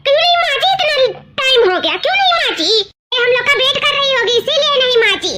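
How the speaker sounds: scolding. Acted. Sister-in-law scolding the girl over unwashed dishes, angry. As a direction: demand an answer, scolding.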